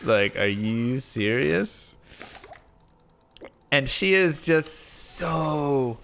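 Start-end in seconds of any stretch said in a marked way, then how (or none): 0.0-2.0 shocked disbelief. Retold or imitated. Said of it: "I'm just sitting there shocked".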